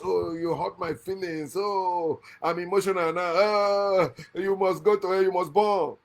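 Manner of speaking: hammed-up wounded complaint; mock emotional. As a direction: whine like someone making a show of hurt feelings. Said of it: "in the name of your emotion, your feelings".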